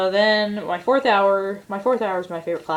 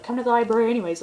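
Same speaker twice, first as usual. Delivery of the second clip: imitating a friend pressing the point, higher and quicker; mock insistent, hurried retelling; 5 semitones higher, 3 dB louder, much faster than usual. Friend overrules the excuse about the bathroom, insistent.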